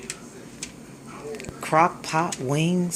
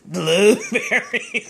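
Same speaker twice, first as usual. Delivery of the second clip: laughing; 4 semitones higher, 4 dB louder, slower than usual. Real, not acted. Laughing at the video.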